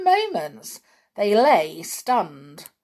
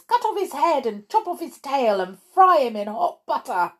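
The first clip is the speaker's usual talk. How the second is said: high, louder eager witches; gleeful witches; 6 semitones higher, 3 dB louder than usual. A narrator's reading. Witches to their leader, gleeful cry. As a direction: relish the cruelty.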